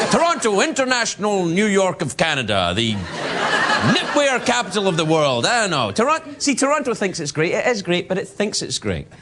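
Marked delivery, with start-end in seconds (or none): 0.1-5.5 lightly voiced civic boasting; mock-proclaim it like a proud local; a hint of grand announcement, mockingly; boastful Torontonians. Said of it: "they're always talking about how great it is".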